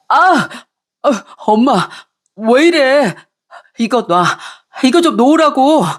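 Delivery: hair being yanked; protesting son in pain. Acted. Son's hair pulled by mother.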